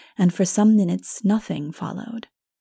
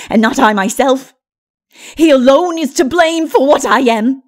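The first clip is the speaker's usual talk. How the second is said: much louder, higher, bitter tirade; raging Lilith; 6 semitones higher, 11 dB louder than usual. A narrator's reading. Lilith rails at Mara against the one who made her, loud and bitter. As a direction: hurl the blame at her maker.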